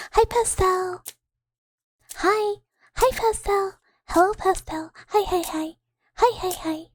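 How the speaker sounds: high-pitched, eager hellos; excited burst of repeated hellos; excited greeting. Real, not acted. Excitedly greeting an arriving viewer.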